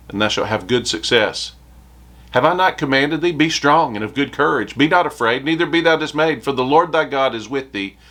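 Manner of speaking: solemn King James reading from the pulpit; scripture reading. Acted. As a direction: read the verses out like the word of God. Reads Joshua passage aloud.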